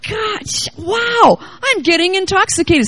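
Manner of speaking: high, breaking cry of delight; giddy joy. Retold or imitated. Preacher retelling her morning in the spirit, giddy exclamation. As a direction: let the joy crack through.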